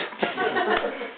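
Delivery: a breathy, high giggle; real high laughter. Real, not acted. Teller giggling for the audience at the field excuse. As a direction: laugh cut short.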